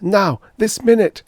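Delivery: high, loud urgent shout; frantic demand. A narrator's reading. Groversb insisting to the official, frantic shout. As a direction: demand it at the top of his voice.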